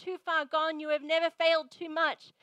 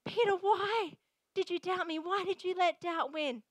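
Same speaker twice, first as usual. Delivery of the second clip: emphatic Jesus voice; 5 semitones higher, 5 dB louder, slower than usual. Acted. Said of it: "So he said".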